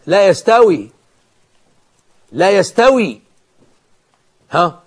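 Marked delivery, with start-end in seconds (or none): 0.1-3.2 "لا يستوي" repeated firmly, each time set apart by a pause; stress on negation. Real, not acted. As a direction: hammer home the negation in "لا يستوي". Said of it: "خد بالك من، من النفي، النفي المساواة دي". (تأكيد النفي في "لا يستوي" بحزم)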